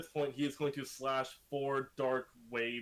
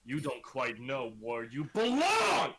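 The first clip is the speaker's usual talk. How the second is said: angry rebuke; 6 dB louder than usual. Acted. Villain berates a kneeling captive.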